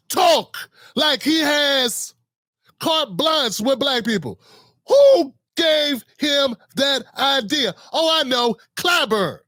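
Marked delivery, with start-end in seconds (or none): 4.9-7.7 loud, drawn-out indignation, high first word; indignant demand. Real, not acted. Outraged rhetorical question about Biden.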